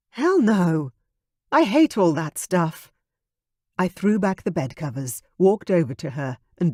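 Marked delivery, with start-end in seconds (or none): 0.1-2.9 groaning. Acted. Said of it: "she groaned".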